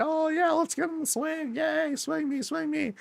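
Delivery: put-on very high, squeaky playground kid voice; excited kids. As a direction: imitate little children cheering to be pushed. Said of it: "there are kids out here".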